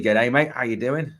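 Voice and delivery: jokey attempt at an Australian accent; badly faked Aussie greeting; awful Australian accent. Host greeting a viewer, in a bad Australian accent. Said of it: "awful Australian accent there".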